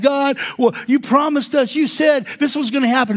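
high, lightly whining complaint to God; mock complaining Israelites. Preacher voices the wandering Israelites complaining, high and whiny. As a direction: whine at God about his promise.

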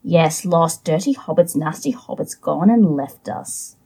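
lightly voiced Gollum, hissing and muttering to himself; a hint of a sulky Gollum talking to his precious. Reads Gollum's lines in character.

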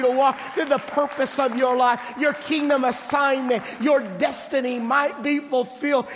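a pastor pushing the sermon to a peak; full-force preaching. Real, not acted. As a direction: build the crowd up, pressing every phrase.

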